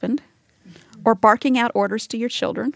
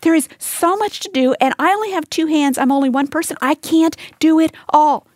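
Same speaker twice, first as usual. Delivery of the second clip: frustrated; 4 semitones higher than usual. Retold or imitated. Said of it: "she would have explained that by saying".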